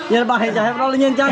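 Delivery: words broken up by real laughter; giggling while teasing a friend; laughing. Real, not acted. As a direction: laugh through the line with friends. Joking among friends while tasting.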